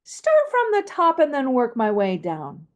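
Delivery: falling pitch line; descending melody. Shown as a demonstration. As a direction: begin on top and step downward. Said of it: "Now, descending".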